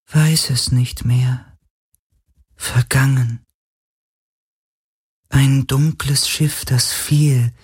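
slow, high and haunted; a ghost recalling its torment; high sorrowful spirit. A narrator's reading. Spirit telling Galen of its suffering, high and mournful.

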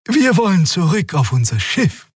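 put-on high, light young female voice; friendly. Xia explaining to the officer, high and light. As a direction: explain innocently.

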